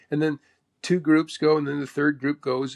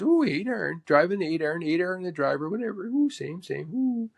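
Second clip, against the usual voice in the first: imitated repetitive chatter with higher oohs; 3 semitones higher than usual. Golfer answers what he hit, imitated with high little oohs. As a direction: toss it off as a quirky golfer impression. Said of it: "He goes".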